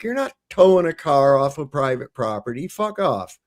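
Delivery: indignant, climbing high at the end; retold defiant refusal. Car owner refusing police tow, retold defiant refusal. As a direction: refuse outright, pitch rising.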